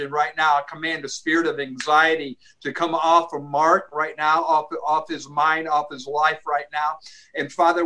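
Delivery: commanding prayer voice; deliverance prayer. Acted. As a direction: rebuke spirits in prayer, firmly. Prayer over blockage and anxiety.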